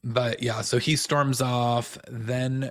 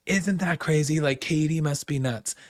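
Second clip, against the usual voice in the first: mocking Scheana; 5 semitones higher than usual. Mimicking Scheana deflecting the rumor.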